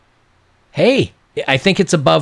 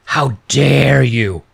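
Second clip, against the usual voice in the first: mock wronged indignation; slower than usual. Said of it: "She pulls out the sobbing noises".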